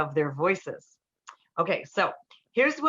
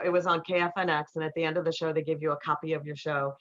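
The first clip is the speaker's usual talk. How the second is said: ordinary talk, nothing marked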